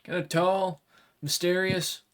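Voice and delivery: a blunt samurai making a deal; dragonkin warrior. Acted. GM voices Kuroshiba.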